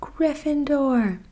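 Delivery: whispered mock shout of the house name; hat shouting. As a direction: call it out like the Sorting Hat. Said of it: "the hat shouted".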